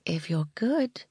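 playful whispered promise; teasing whisper. Acted. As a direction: breathe the tease close to his ear. Flirty promise to Rob.

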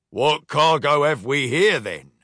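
lightly voiced gruff pirate captain; a hint of a swaggering captain. Captain inspects the captured cargo, lightly gruff. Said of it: "asked Captain Clockheart".

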